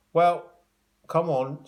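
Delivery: urging call. A narrator's reading. Porter urging the gang.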